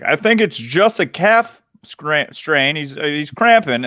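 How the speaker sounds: high-pitched commentator impression; Tony Romo. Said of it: "when Tony Romo was like".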